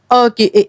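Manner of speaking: saying the letter sound "اَ" then the name "اے"; teacher sounds out "اَ" clearly; letter sound demo. Shown as a demonstration. Teacher sounds out the letter to children. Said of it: "اے کی آواز ہوتی ہے اے".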